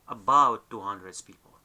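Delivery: two hundred said as two hundreds before people; S added. Shown as a demonstration. Teacher giving an English exception, two hundred with added s. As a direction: add an s to hundred. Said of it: "We add the S there".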